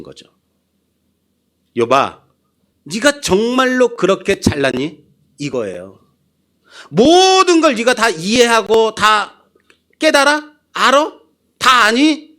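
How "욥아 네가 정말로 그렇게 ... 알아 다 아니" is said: high, pressing divine challenge; God mockingly grilling Job, higher and insistent; God challenging Job. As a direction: lean in and demand an answer.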